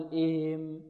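إهم softly as "-iim", h swallowed; wrongly smear the h of إهم; lost ha. Shown as a demonstration. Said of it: "لا نقول". (إخفاء الهاء في إهم)

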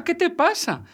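Luisa's alarmed shout repeated; frightened cry repeated. A narrator's reading. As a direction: keep the panic up, pitch soaring. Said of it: "se asustó y gritó".

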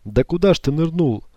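high, laughing, mischievous teasing; playful teasing. Acted. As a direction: tease him with a giggle. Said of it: "шалила Зоя Карловна".

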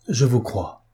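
understated, heartfelt avowal; deeply moved. A narrator's reading. Fabrice answering the weeping woman after silence, deeply moved. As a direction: say it with restrained emotion. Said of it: "d'une voix profondément émue".

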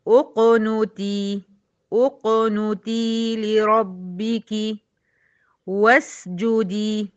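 اقنتي begun with u, uqnuti, drawn out slowly; starting with damma. Shown as a demonstration. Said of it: "يبقى هقول إيه؟". (ابتداء اقنتي بهمزة مضمومة)

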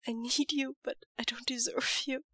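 a mild choked half-whisper; a touch of tears, breaking to a whisper; lightly choked confession. Acted. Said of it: "he chokes out".

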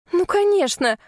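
nervous laugh. Acted. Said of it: "Я нервно хохотнула".

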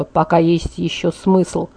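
soft, slow, low murmur; quiet, slowed and intense; whispered. A narrator's reading. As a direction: let it sink to a hushed near-whisper. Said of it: "прошептал он".

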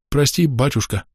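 frightened husband begging forgiveness; breaking mumble. A narrator's reading. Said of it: "бормотал он, срываясь".

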